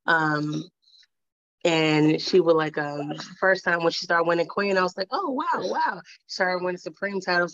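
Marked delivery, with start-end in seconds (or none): 5.1-6.0 drawn-out, higher-pitched wow of retold amazement; amazed. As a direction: awestruck recounting. Retells her amazement at wins.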